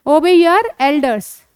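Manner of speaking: slow, clear, drawn-out English model phrase; slow teaching model. Shown as a demonstration. Teacher slowly modelling phrase for a child. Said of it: "ओबे".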